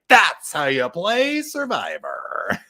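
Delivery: Jeff voice. Retold or imitated. Co-host imitates Jeff delivering verdict to camera, slow and grand. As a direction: ham up the host's proud verdict, slowly. Jeff's dramatic line to camera.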